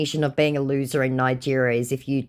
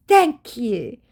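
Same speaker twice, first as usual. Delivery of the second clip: mocking scammer voice; 10 semitones higher, 5 dB louder than usual. Reading the scammer's reply.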